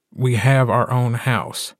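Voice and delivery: slow, lightly grumbled complaint; mild grumble at his partner; grumbling. Acted. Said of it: "Gordo grumbles to Mark".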